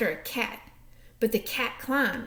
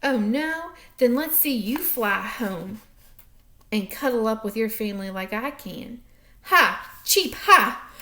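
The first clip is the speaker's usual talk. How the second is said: chirpy bird voice, loud cheep at the end; taunting bird; 3 dB louder than usual. Acted. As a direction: tease like a cocky bird.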